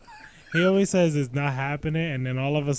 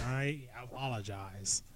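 quiet; 11 dB quieter, slower than usual. Real, not acted. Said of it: "You keep getting quiet on us".

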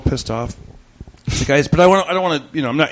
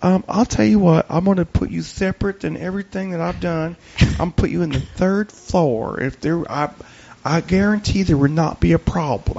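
apologetic clerk; 4 semitones higher than usual. Retold or imitated.

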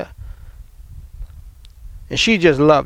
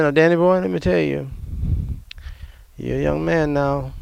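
loving grandmother; 3 semitones lower, 4 dB quieter than usual. Retold or imitated. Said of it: "she said this right here very lovingly too".

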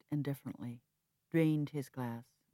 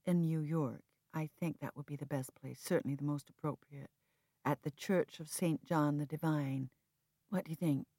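calm reply. Acted. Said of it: "I responded calmly".

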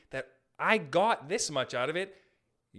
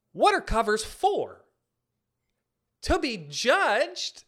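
sarcastic question; 4 semitones higher, 5 dB louder, slower than usual. Real, not acted.

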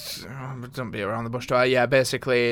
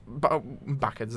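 backwards in a Yorkshire accent, slow and halting; 5 dB quieter, slower than usual. Shown as a demonstration. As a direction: say backwards the Yorkshire way, stumbling on the start. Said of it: "that was very Yorkshire of me".

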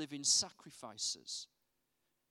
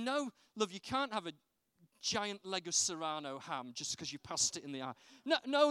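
higher, gently pleading parent voice; patient dad; 4 semitones higher than usual. Retold or imitated. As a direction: talk the little one out of it kindly. Dad answering child in shop.

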